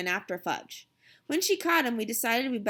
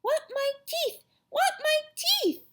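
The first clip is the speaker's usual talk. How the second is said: put-on toddler's mild scream. A narrator's reading. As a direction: wail for it like a toddler. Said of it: "Fudge started to scream".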